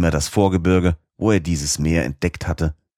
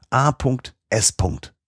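slow, much higher, each letter spelled out in wonder; excited cry; 7 semitones higher, slower than usual. A narrator's reading. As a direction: call out the letters slowly, high and amazed. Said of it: "rief mein Oheim". (langsam, hoch und staunend ausgerufen)

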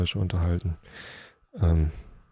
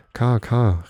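higher, restrained calling of a name; mild narrated call; 4 semitones higher, 7 dB louder than usual. A narrator's reading. Elk calling the dog after a while, mild call. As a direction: lightly call out to someone following. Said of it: "rief er nach einer Weile".

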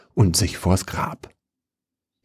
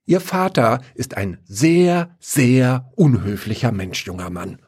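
put-on high scolding old lady; indignant old woman scolding a young man; 4 semitones higher than usual. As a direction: tick him off like an indignant granny. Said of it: "schimpfte die Alte".

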